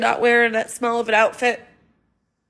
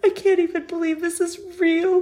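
real crying, voice cracking; choking on disbelief through tears; tearful disbelief; 3 semitones higher than usual. Real, not acted. Grieving a dead friend.

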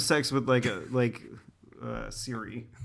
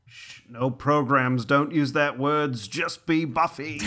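slow, possessive hush, lightly voiced; lightly voiced vampire claiming her; Spike; slower than usual. Spike soothes Buffy bot in a slow, lightly voiced hush. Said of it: "I'm playing Spike".

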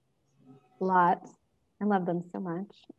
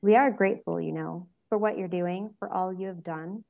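serious. Acted. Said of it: "then added more seriously".

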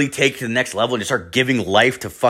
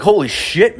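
higher-pitched "holy shit" of disbelief; astonished reaction; 7 semitones higher, 3 dB louder than usual. Retold or imitated. Friend stunned by the surrogate's payout, astonished. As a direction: blurt it out, amazed.

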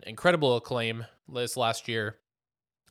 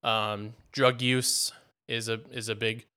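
out of breath; slower than usual. Real, not acted. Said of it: "Sorry, I'm out of breath".

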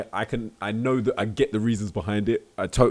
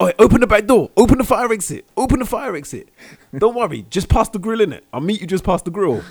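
high, loud hissed scheming; high loud lad; 11 semitones higher, 9 dB louder than usual. Pretend. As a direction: call to mates, pitched way up. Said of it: "It's like".

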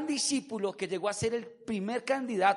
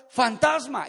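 mock cry of alarm, louder; grito de alarma; 3 semitones higher, 6 dB louder, slower than usual. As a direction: call it out as a startled disciple, lightly acted. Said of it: "era normal que cualquiera diga". (grito de susto fingido)

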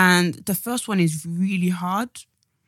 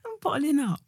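laughing; 8 semitones higher, 5 dB quieter than usual. Real, not acted. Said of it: "I'm not even speaking right".

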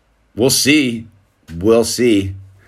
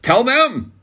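retold urging; 12 semitones higher than usual. Dad urging son on camera.

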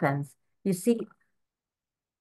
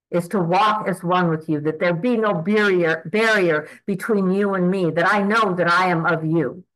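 earnest prayer. Acted. Praying aloud to God, offering herself, in earnest prayer. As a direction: pray it from the heart, unhurried.

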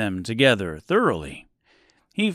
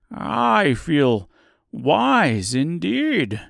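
slow, earnest and louder; 5 semitones higher, 4 dB louder, much slower than usual. Acted. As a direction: say it with sincere conviction. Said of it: "he answered earnestly".

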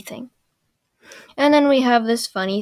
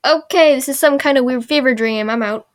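loud, raised voice easing off at the end; louder opening, as if done with this; mock exasperated Sokka; 3 semitones higher, 6 dB louder than usual. Sokka bailing on the weird fever dream, mock exasperated. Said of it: "And then Sokka's like".

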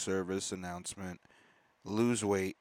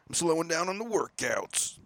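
much higher mock voice; high silly voice; 10 semitones higher, 5 dB louder than usual. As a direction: squeak it out in falsetto. Sudden high put-on voice.

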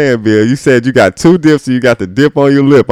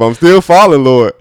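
auntie falling. Retold or imitated. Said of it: "how the auntie fell down the stairs".

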